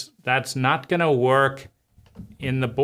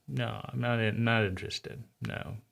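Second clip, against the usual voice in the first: put-on quiet, sulky mutter of a child; a sulking child refusing the parent's offer, very quietly; sulky refusal; 2 semitones lower, 10 dB quieter than usual. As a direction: mumble it like a pouting kid turning away.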